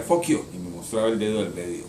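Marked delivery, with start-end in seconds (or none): 0.0-0.4 put-on much higher, louder child's retort; high, punched, falling mimicry of a kid; retold defiant child. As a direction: imitate a little boy's outburst. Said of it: "decía".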